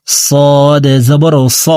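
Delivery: slow demo of صاد with a thin s sound. Shown as a demonstration. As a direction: draw out صاد, keeping the consonant thin. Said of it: "পাতলা করে উচ্চারণ করব". (صاد পাতলা করে উচ্চারণ)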